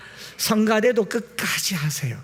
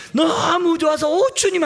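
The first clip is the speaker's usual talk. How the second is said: high, elated outburst of worship; overjoyed cry, pitched right up; ecstatic praise; 10 semitones higher, 3 dB louder than usual. Acted. Preacher acting out heaven's worshippers crying to the Lord, ecstatic.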